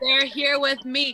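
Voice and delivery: acted, exaggerated drunken voice. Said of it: "Act drunker than I am".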